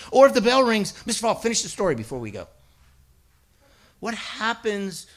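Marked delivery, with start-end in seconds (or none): 1.1-2.5 eager student. Retold or imitated. Students begging for more.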